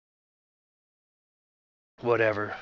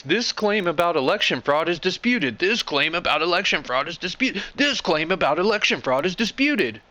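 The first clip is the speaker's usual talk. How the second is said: sing-song sneer, a bit higher, droning it again and again; mocking repetition; 5 semitones higher than usual. Vlogger mocking Twitter's fraud label with sneering repetition. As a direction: parrot the label like a broken record.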